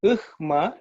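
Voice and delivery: "Ukhma" with h before m; correct Sanskrit pronunciation. Shown as a demonstration. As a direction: sound a breath of h, then ma, in "Ukhma". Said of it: "is the correct pronunciation".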